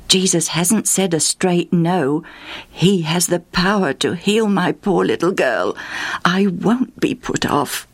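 to herself. Acted. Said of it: "Justa said to herself".

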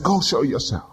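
Jesus' brief command; short command. Acted. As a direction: bark it once.

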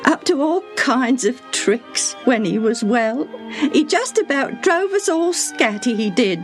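high, wistful servant voice; fond memory told through sadness; wan smile. A narrator's reading. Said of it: "she said with a wan smile".

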